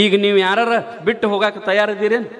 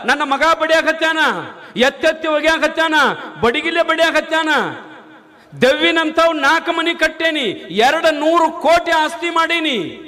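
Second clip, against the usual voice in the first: put-on crying old man; 8 semitones higher than usual. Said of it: "ಅಳ್ಳಾಕ್ ಹತ್ತಿದ್ದಂತೆ".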